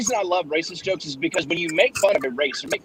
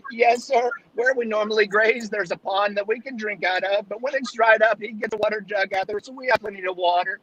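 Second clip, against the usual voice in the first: a hint of a higher goat voice; lightly raised talking goat; lightly voiced goat; 5 semitones higher than usual. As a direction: play the polite goat, a bit higher.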